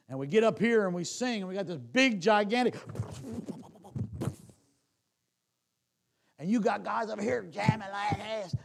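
loud, rising sermon delivery; preaching at full force. Acted. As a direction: build it up and preach it hard to the church.

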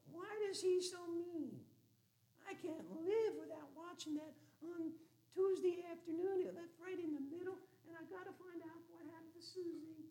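high, breathy mock housewife whining over her soap; hammed-up high wife voice. Mocking a soap-watching wife.

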